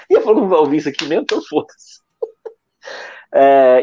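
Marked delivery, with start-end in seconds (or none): 1.2-2.0 whispered aside. Real, not acted. Aside swearing under breath.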